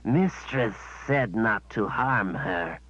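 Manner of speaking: slow, simple-minded creature voice; creature servant. Acted. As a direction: dull beast reciting orders.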